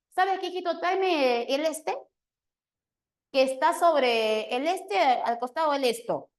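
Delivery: lightly voiced mother hunting for a word; a hint of a rushed mom searching for the word; hurried mother. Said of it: "Así habla la mami".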